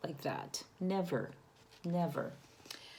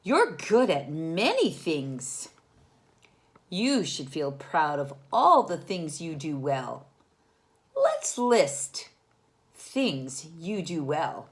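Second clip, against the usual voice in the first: encouraging mom; 4 dB louder, slower than usual. Acted. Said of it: "said Mom".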